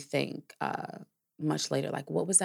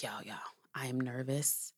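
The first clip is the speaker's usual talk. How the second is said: hushed confiding; 6 dB quieter than usual. Retold or imitated. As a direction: confide it under your breath to a friend. Confiding nerves to her friend.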